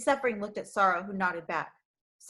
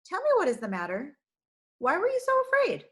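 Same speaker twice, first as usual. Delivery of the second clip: gently; 8 semitones higher, 3 dB louder than usual. Acted. Shepherd comforting the frightened girl, gentle voice. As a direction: coax it out of her gently. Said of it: "he said gently".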